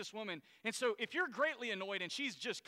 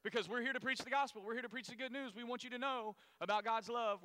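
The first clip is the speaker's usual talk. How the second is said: mock preaching Paul; 3 semitones higher than usual. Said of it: "Paul would say".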